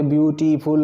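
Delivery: ब्यूटीफुल broken carefully into ब्यू-टी-फुल; syllable by syllable. Shown as a demonstration. Teacher asks students to watch their tongue, syllable by syllable. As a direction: sound out each part of ब्यूटीफुल, ब्यू, टी, फुल. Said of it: "अपनी ज़बान को observe करिए".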